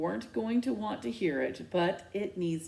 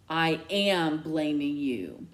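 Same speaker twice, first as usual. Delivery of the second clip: slow, louder, clipped retort; cold retort; 3 semitones lower, 3 dB louder, slower than usual. Acted. Mom coldly retorting to her daughter. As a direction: throw it back at her.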